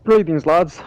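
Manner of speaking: hammed-up Scottish accent greeting; jokey Scottish accent at the start of the stream. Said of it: "I decided to do that accent".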